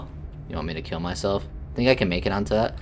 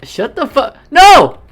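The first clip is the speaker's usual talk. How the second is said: yell; 15 dB louder, slower than usual. Real, not acted. Streamer yells at the narrator.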